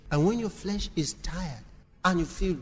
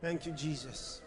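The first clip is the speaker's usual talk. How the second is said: imitated murmured prayer; 10 dB quieter than usual. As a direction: drop to a murmured thanks, imitating. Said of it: "he just went".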